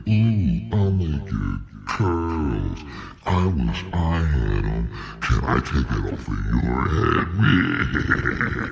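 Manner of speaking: high, sugary mock old lady voice, slow and cooing; old white lady. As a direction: ham up a nosy old lady gushing over curls. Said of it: "old white ladies like to touch on black girls' hair and be like".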